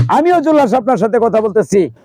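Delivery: high, declaimed stage voice, rising as he goes; determined son. Acted. Julhas tells mother he will go hunting, defiant. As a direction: build to a ringing vow.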